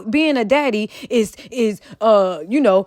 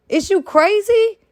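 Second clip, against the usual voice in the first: incredulous; 6 semitones higher than usual. Real, not acted. Incredulous rant at a dad.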